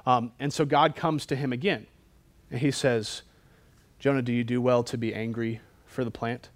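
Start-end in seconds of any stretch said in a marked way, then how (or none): 4.0-6.5 measured, deliberate question as God; God's loaded question. Acted. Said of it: "talks to you like that".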